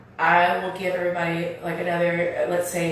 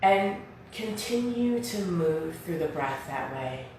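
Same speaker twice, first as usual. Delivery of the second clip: guided meditation; slower than usual. Real, not acted. Leads seated breathing meditation.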